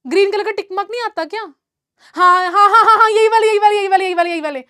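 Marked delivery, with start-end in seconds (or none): 2.2-4.6 rapid-fire repeats, loud then tailing off; eager confirmation. Real, not acted. Teacher spotting the right replies in chat, eager confirmation. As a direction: burst out yes, then rattle on downwards.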